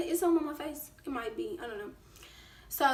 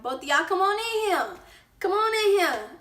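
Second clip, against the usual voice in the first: higher, louder call from the door; mom calling out; 7 semitones higher, 5 dB louder than usual. Retold or imitated. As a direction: call them inside firmly. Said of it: "I was like".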